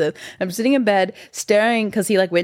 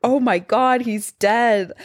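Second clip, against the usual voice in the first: retold freak-out; 4 semitones higher, slower than usual. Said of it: "I'm freaking out 'cause I'm so high".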